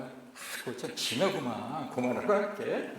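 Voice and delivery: relaxed Jeolla dialect refusal. Retold or imitated. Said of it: "전라도 말로 하면".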